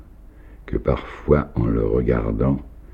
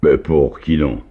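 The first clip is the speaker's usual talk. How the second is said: louder, a bit higher, fond exclaim; tender cry; 4 semitones higher, 6 dB louder than usual. A narrator's reading. Moved host answers the timid girl, crying out fondly. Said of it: "cria Nikita, attendri".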